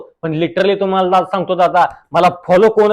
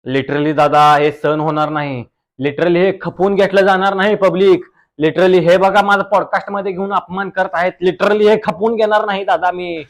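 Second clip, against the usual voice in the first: reel star guest voice. Acted. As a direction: play the smug village reel star. (रील स्टारचा आवाज)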